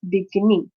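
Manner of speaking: beginning with the weight kept on its middle syllable, GIN; stress on second syllable. Shown as a demonstration. Teacher showing the stress stays, GIN stressed in beginning. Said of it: "G is getting the, uh, amplification".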